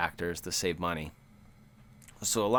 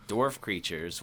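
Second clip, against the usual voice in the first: normal talking voice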